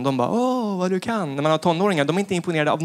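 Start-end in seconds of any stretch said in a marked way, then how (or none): 0.3-1.4 drawn-out doting parent voice, slow; slow mock-amazed parent to small child; slow fake-impressed praise. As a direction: praise a toddler slowly and sweetly.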